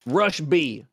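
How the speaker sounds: badly faked Russian accent; Russian accent attempt. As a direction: try out a clumsy Russian accent. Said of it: "how about this?".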